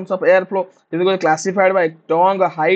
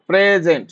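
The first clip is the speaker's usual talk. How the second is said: ପ୍ରେଜେଣ୍ଟ with a long, stressed first syllable; ପ୍ରେଜେଣ୍ଟ, slow, weight on the first syllable; slower than usual. Shown as a demonstration. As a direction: draw out the opening syllable of ପ୍ରେଜେଣ୍ଟ slowly. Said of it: "ଏଇ ଜାଗାରେ ଆମେ stress ନେଇ ଯାଉଛେ".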